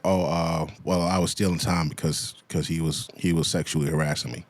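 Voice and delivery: lightly voiced sheepish excuse; mocking meek voice. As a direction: mumble her flimsy excuse back at her.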